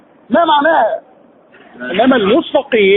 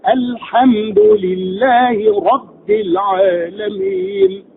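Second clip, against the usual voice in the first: slow Quran recitation; much slower than usual. Shown as a demonstration. Teacher recites the verse as a tajweed model. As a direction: chant it slowly like a reciter. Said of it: "تطبيق عملي".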